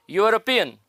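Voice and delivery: यूरोपियन alone, opening on a "y" glide; teacher showing that यूरोपियन starts with य; pronunciation demo. Shown as a demonstration. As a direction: model यूरोपियन as "yoo-ro-pi-yan", falling at the end. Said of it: "यूरोपियन को कैसे पढ़ते हैं".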